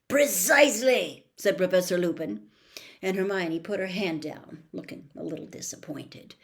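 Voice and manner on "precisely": emphatic approval. Acted. Teacher confirming correct answer.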